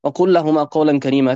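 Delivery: fast chanted Quranic verse; chanted Arabic verse; Quran recitation. Acted.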